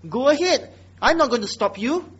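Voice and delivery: mock-generous permission, lightly lifted; sarcastic. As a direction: wave them on with sarcastic largesse. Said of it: "very sarcastic".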